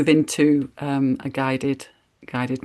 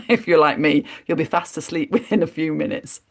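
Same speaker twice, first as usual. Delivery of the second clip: light self-teasing laugh in the voice; real laughter breaking into talk; amused chuckle. Real, not acted. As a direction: chuckle through the admission. Jokes about falling asleep herself.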